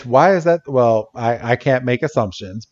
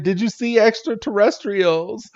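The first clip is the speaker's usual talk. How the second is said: higher, excited asking; eager question; 8 semitones higher, 4 dB quieter than usual. Retold or imitated. Scientist quizzes the chef, higher and excited. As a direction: lean in hungry for the answer.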